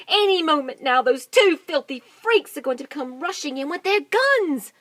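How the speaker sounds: loud, high hurried orders; excited. Acted. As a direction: rush them, thrilled. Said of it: "I'm so excited".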